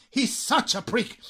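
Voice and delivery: "such a prick" slow, with "such" stretched; emphatic SUCH. Shown as a demonstration. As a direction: lean long on "such" before "prick". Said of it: "todavía lo enfatizáis más". ("such a prick" lento, recalcando "such")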